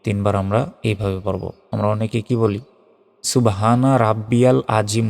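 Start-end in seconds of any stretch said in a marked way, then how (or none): 3.2-5.1 "আজিম" with a plain j and short ending; mispronounced tasbih. Shown as a demonstration. Teacher showing a common mistake, mispronounced recitation. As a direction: say "রাব্বিয়াল আজিম" with open a and j sound. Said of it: "বলি, এটা ভুল".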